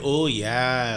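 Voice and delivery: lightly imitated rural Canadian accent; a hint of deep-Canada accent. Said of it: "that deep Canada kinda".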